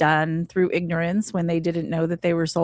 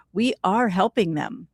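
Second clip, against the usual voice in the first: whispered. Real, not acted. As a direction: let it fall to a whisper. Whispers the point about prayer.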